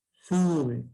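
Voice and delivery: "sube" drawn out as a melody demo; rising intonation demo. Shown as a demonstration. Teacher showing pupils a growing diphthong, intonation demo. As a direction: stretch "sube" to show the line of intonation. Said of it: "Mira, así".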